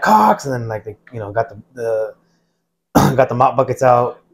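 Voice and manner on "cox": high-pitched drill instructor call. Retold or imitated. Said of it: "drill instructors like".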